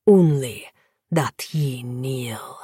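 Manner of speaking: whispered command. Acted. Vampire lord commands softly.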